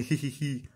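soft, low mock titter; a light "jijiji" mimicking someone amused; imitated giggle. Mocking the laughing woman in glasses, soft fake giggle. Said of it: "hasta risa".

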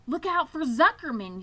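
high, loud gander yell; yelled warning. A narrator's reading. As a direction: yell a warning across the barnyard. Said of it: "yelled the gander".

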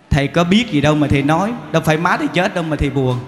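fast retort; quick tart comeback; snappy retort. Retold or imitated. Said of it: "nói một câu nghe ngọt hết à".

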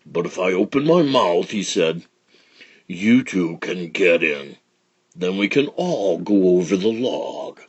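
slow sly big alligator; lightly voiced sly crocodile.

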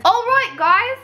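high-pitched mash-up of British and Australian accents; muddled mixed accent. Shown as a demonstration. Vlogger practising accents for viewers, muddled British-Australian accent. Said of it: "a combination of all my accents".

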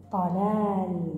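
طلال said slowly with the ط drawn out and weighted; slowed word with the first letter stressed; stressed first sound. Shown as a demonstration. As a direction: lean on the ط at the start of طلال. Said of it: "انتبه إلى صوت حرف الطاء".

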